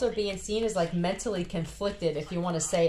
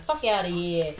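New Jersey accent; 2 semitones lower than usual. Shown as a demonstration. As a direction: toss off "Fuck outta here" like a New Jersey local. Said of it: "Say it in a New Jersey accent".

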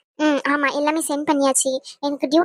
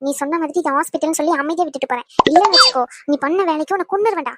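angry threat. Acted. Girlfriend in the hospital warning her boyfriend, angry. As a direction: threaten him, flaring up midway. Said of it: "செம்ம கோவத்துல இருக்கேன்".

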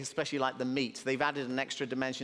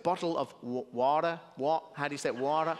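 American try. Retold or imitated. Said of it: "So I tried to say it right".

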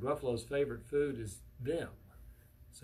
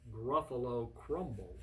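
sly menace; 3 semitones lower, slower than usual. Acted. Mouse threatens Gruffalo with his favorite food, menacing. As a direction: lower the volume and draw out the threat.

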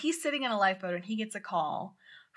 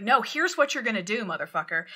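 raised, commanding voice; mock yell; 2 semitones higher, 5 dB louder than usual. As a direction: lay down the law to him. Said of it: "there's often yelling".

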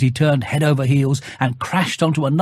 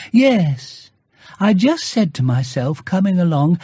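higher cheerful bear voice; Pooh's greeting; 4 semitones higher than usual. Acted. Bear greets Christopher Robin at his door, higher and cheerful. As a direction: greet your friend brightly. Pooh explains.

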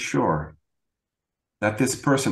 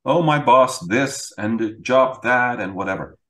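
mock complaining wife; 3 semitones higher than usual. Husband imitating his ex-wife venting about work, mock complaining. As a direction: play the wife venting, half-mocking. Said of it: "she would complain about her job".

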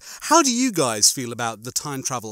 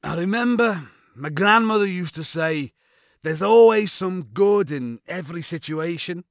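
raised, louder character voice; Lister; 6 semitones higher, 4 dB louder than usual. Acted. Lister quotes grandmother to Rimmer, in a raised voice. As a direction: pitch it up and argue it earnestly.

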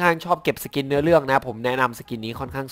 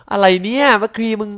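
high, loud, drawn-out incredulous outburst; real scoffing disbelief, pitched way up; amused disbelief; 8 semitones higher, 5 dB louder, slower than usual. Real, not acted. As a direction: exclaim slowly in appalled amusement. Mocks an ugly skin, laughing in disbelief.

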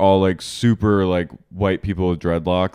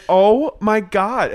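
high, drawn-out exclamation; appalled; 10 semitones higher, 4 dB louder, much slower than usual. Retold or imitated. Podcaster reacting to kids crying at the cult, appalled exclamation. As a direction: stretch it out slowly in appalled disbelief.

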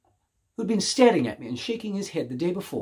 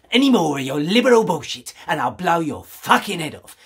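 louder, hard snarling threat; menacing threat; 2 semitones higher, 6 dB louder than usual. Acted. Shop woman cocking her gun at the stranger: loud menacing threat. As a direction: promise violence and mean it.

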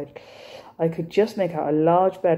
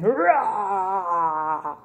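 mock lion roar. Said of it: "started roaring like a lion".

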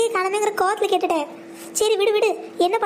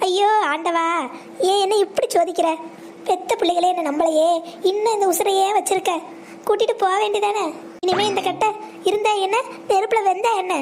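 fake wailing. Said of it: "நடிகை திலகம் சாவித்திரி இன்னும் சாவல".

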